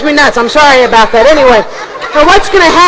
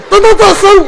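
puppet mispronouncing; 5 semitones higher than usual. Acted. Puppet mangles magician.

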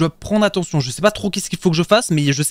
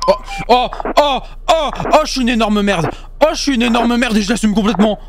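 self-mocking excitement; 5 semitones higher than usual. Real, not acted. Laughs at own failure.

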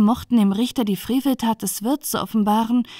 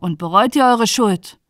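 louder questioning; mildly raised judge's voice; calling out; 5 dB louder than usual. Acted. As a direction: demand repentance, raising the voice a little. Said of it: "rief der Richter".

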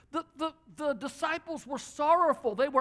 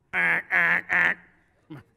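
calling out; 7 semitones lower, 7 dB louder than usual. Real, not acted. Preacher calls a man to the front.

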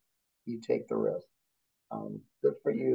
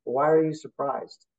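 polite question; slower than usual. Retold or imitated. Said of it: "I would very politely say".

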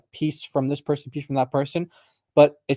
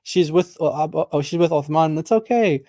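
high, loud, scoffing "who cares"; dismissive mocking voice; 5 semitones higher, 3 dB louder than usual. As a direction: brush it off with a sneer. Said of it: "They're like".

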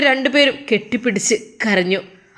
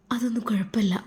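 whisper; 6 dB quieter than usual. Acted. Couple plotting quietly.

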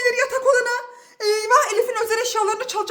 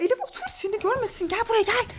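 whispering while hiding; 7 dB quieter, faster than usual. Real, not acted. Hiding from the masked thief.

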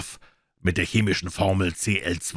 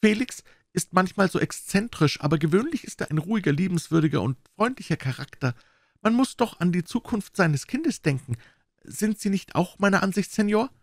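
quiet confiding; 11 semitones higher than usual. A narrator's reading. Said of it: "sprach mit leiser Stimme".

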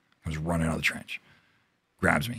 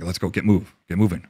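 barking orders; 2 semitones higher, 10 dB louder than usual. Retold or imitated. Team leader yelling at a wounded soldier to get moving, loud barked order.

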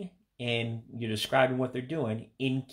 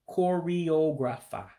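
Igbo accent; 5 semitones higher, slower than usual. Shown as a demonstration. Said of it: "with an accent to it".

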